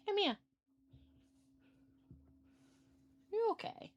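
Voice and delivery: sweet pet-talk voice. Real, not acted. Cooing to her cat.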